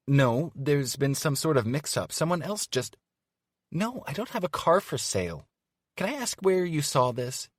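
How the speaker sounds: flustered. Acted. Evie on the phone, flustered and indignant. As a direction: sputter in rising disbelief. Flustered caller denying car sale.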